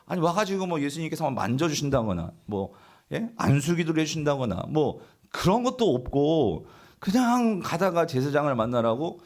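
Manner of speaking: mildly exasperated, incredulous complaint; indignant grumbling. Acted. One of ten lepers complaining about being sent to the priests, indignant grumbling. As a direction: grumble in protest, as an acted-out complainer. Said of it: "막 원망하고 막 불평하고".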